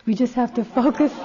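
real laugh bubbling up as you speak; breaking into laughter. Real, not acted. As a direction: start to crack up on the last words. Breaks into laughter mid-sentence.

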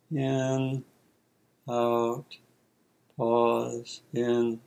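soft, low breath labels with pauses; quiet label. Shown as a demonstration. Teacher demonstrating labels for in and out breath, quiet label. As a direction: murmur each word on its own, spaced to the breath. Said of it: "give a brief quiet label".

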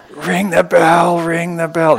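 high, loud and slow playful alarm; mock alarm call. Teacher playfully calling for the bell, loud mock alarm.

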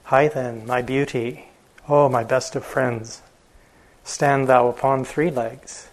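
gentle coaxing words to the elephant, slowing at the end; spoke softly. Acted. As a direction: coax a beloved friend gently. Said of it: "spoke softly and said".

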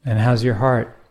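unhurried meditation guide, long pauses between phrases; guided meditation. Acted. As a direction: gently pose each question, leaving silence after it.

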